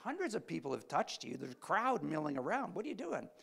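high, baffled disbelief at Jesus; incredulous disciples. Retold or imitated. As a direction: play the puzzled disciples asking what he means. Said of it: "this is hilarious to the disciple".

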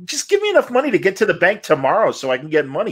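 imitating Studs haggling with the robber; old man pleading. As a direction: beg the thief like a frail old man. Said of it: "He goes".

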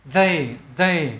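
"They" with tongue tip at the upper teeth, breath let out; careful, separated "They, they". Shown as a demonstration. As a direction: model the voiced TH in "They", twice. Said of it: "Đưa cái đầu lưỡi lên gốc hàm răng này".

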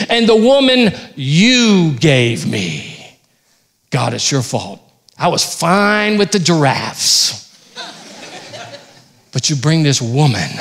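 slow, drawn-out whine at the start, then laughing; blame-shifting complaint to God; whiny Adam. Acted. Adam blames God for the woman, whiny. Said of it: "he threw some shade on her".

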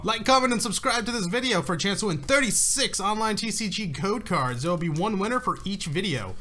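overacted like a cheesy commercial; bad acting. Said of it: "why do you sound like a really bad actor".

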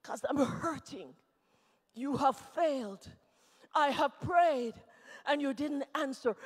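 low, soft, halting complaint; hurt reproach. Acted. Hurting believer telling God he failed, quietly hurt. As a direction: drop to a wounded quiet.

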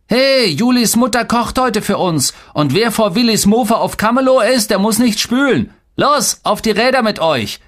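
high, excited rallying call. A narrator's reading. Boy rallying his friends onto bikes, excited calling. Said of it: "rief er".

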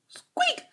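very high squeaky rat noise; rat squeak. Acted.

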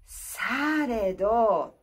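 breathy whispered されど. Shown as a demonstration. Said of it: "ウィスパーを入れて".

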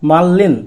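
মাল্লিন said carefully with a double l; demonstrated pronunciation. Shown as a demonstration. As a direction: model মাল্লিন clearly, l in place of r. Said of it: "শব্দটির উচ্চারণ দাঁড়াচ্ছে কি".

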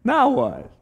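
high, laughing mock groan; deadpan it while still laughing; family's mock exasperation, laughing; mock dismay through laughter. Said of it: "they're all standing there going".

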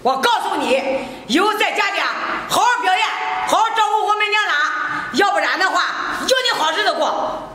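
scornful nagging, pushing hard; harsh scolding. Acted. Mother-in-law berates the crying daughter-in-law, harsh scolding.

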